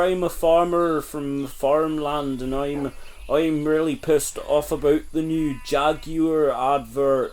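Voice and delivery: lightly put-on farmer voice sliding into Irish; a rustic farmer who comes out sounding Irish; Irish-sounding farmer accent. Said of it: "It sounds so Irish".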